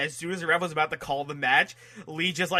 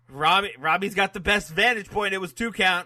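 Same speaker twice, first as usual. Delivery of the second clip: imitated announcer; 4 semitones higher, 4 dB louder than usual. Imitating announcers' repeated line.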